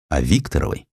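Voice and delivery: usual speaking voice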